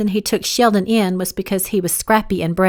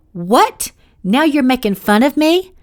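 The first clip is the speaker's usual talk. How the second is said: higher, louder offended question; indignant; 5 semitones higher, 4 dB louder than usual. Acted. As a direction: bristle at being teased. She feels mocked.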